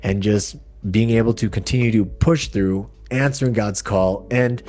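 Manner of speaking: projected podcast opening; podcast intro. Acted. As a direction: present the episode and welcome the guest. Scripted-sounding introduction to the show.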